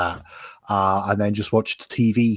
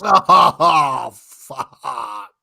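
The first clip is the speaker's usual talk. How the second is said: long Scottish swear, loud opening trailing into breath; drawn-out Scottish accent, fading to a whisper; 5 semitones higher, 5 dB louder than usual. Acted. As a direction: open big, then let the Scottish vowels die away. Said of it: "gotta be done with the accent".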